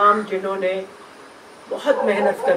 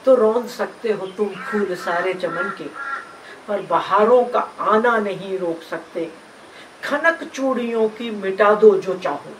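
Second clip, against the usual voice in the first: measured, rhythmic verse recital; poem recitation. Acted. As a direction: recite the verse in steady, stressed phrases. (लय में नज़्म का पाठ)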